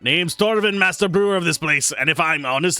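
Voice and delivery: Torvin dwarf voice. Acted. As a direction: play the boisterous tavern brewer sizing up the newcomer. Reads drunk dwarf NPC lines.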